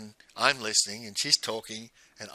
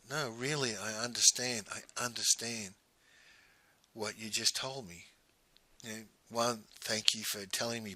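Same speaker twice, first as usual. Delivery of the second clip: soft, gentle reassurance; hushed consoling; 7 dB quieter than usual. Retold or imitated. Telling the grieving woman softly he understands, gently. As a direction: ease her grief quietly.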